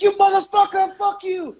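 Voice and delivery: very high imitated cursing; mock furious yell. Friend still cursing the departing bus, mock furious. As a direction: heckle high-pitched without full volume. Retold yelling at campaign bus.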